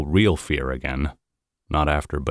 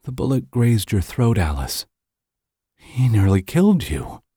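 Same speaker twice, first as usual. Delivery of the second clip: wobbly voice; 5 semitones higher than usual. Acted. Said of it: "Her voice wobbled".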